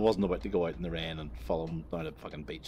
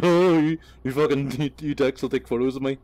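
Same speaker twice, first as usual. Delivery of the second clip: higher, louder panicked protest from a friend; imitating Telford; 6 semitones higher, 9 dB louder than usual. Vlogger mimicking friend accusing them of photos, high and loud. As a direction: voice him refusing, flustered. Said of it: "he's like".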